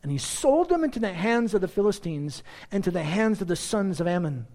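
solemn scripture reading. Acted. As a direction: read the passage with weight. Reads Judges passage aloud.

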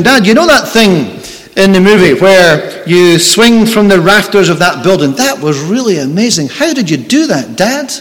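a hint of an excited six-year-old asking his dad; child's voice. Boy asking his father excitedly.

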